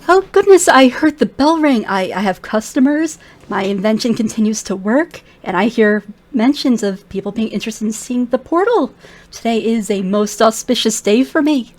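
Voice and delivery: put-on a flustered, delighted old arcanist; excited old wizard. Elf shopkeeper greeting his first customers, excited.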